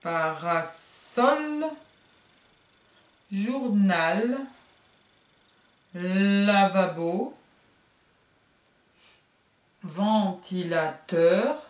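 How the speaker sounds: each word drawn out slowly; slow teacher words; slow, stretched words. Shown as a demonstration. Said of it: "vous devez faire".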